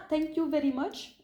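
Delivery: slow thank you with French vowels; French accent in English. Retold or imitated. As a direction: say it like a French speaker struggling with English. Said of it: "Non, mais c'était vraiment".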